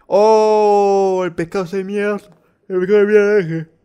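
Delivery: high loud outraged cry; excited shout. Real, not acted. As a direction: shout in shocked disbelief. Reacting loudly to the fish. (grito indignado)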